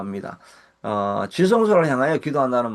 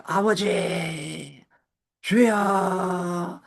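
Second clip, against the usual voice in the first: very slow, higher, rising to a shout on 살려주세요; desperate cry for help; 6 semitones higher, much slower than usual. Shown as a demonstration. Pastor voicing a prayer in crisis, desperate pleading shout. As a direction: cry out as if falling into the abyss. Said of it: "이런 기도가 나오지 않습니까?".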